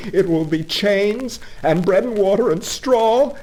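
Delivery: high, loud, desperate begging that climbs; Toad pleading. Acted. Toad on his knees begging the engine driver to save him. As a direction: beg the engine driver for rescue, rising to a wail.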